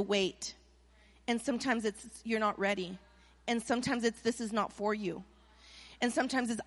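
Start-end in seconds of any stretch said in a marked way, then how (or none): 2.2-3.0 soft, low answer from God; hushed, low-pitched verdict; gentle refusal. Retold or imitated. Voicing God's answer to prayer. 4.2-5.2 soft, low answer from God; hushed, low-pitched verdict; gentle refusal. Retold or imitated. Voicing God's answer to prayer.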